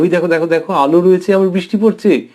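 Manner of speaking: put-on a touch of childlike amazement; amazed child. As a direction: point it out to a friend, delighted. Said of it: "ওদিকে অবাক হয়ে যায়".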